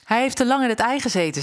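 mother duck hurriedly standing up for her duckling; quick defensive mother. Acted. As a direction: rush to defend your chick. Mother defends chick to ducks.

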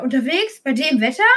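mildly appalled questioning; a touch of horrified disbelief. Acted. Horse owner to the vet on the phone, mildly horrified. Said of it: "Entsetzt schreit der Pferdehalter".

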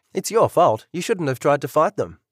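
angry blame. Acted. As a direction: throw the blame back at him. Couple quarrel in hospital.

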